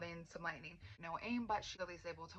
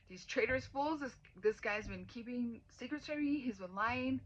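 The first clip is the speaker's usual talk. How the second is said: higher and louder indignant rant; mock outrage; 5 semitones higher, 6 dB louder than usual. Voicing Violet's fury at being lied to, mock outrage. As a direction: act out the betrayed fury.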